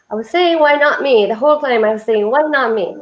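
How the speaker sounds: lightly attempted African accent, warmly retold; amateur hint of an African accent. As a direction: imitate a woman's African accent, not very well. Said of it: "I'm trying to do her accent".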